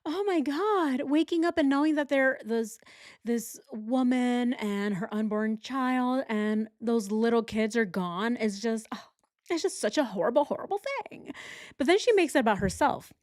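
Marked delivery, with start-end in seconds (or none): 0.0-11.3 a lightly voiced mocking impression; mocking imitation. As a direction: parody her fake horror. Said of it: "she starts with".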